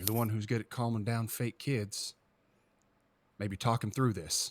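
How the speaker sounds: hushed, half-whispered stage whisper. A character gives Adams a pointed look and speaks to him, half-whispering. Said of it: "kind of whisper like".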